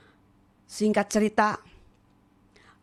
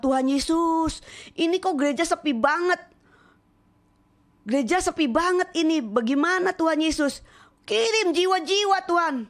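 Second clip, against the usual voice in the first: raised, pleading voice crying out to Jesus; pleading prayer; 6 semitones higher than usual. Retold or imitated. Preacher retelling her prayer to Jesus, high and pleading. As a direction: beg God to fill the empty church.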